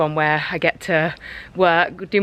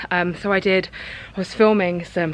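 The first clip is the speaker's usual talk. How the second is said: out of breath. Real, not acted. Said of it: "sorry, I'm so out of breath".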